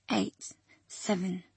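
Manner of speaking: slow, soft, fading count; trailing off. Acted. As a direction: let the voice fade as she goes under. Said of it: "her small voice trailed off".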